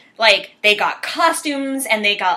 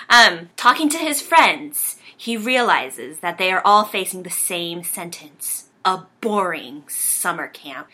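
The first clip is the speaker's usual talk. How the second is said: dramatic reading. Acted. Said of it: "Virginia's gonna do a dramatic reading of the I M D B".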